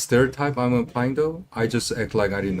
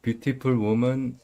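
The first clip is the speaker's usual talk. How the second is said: put-on stereotypical Asian accent; 4 semitones higher than usual. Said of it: "that's not bad".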